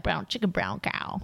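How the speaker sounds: slow, soft seductive purr; sultry sexy voice. Retold or imitated. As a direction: say it like setting a romantic mood. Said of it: "making a sexy kind of a romantic environment".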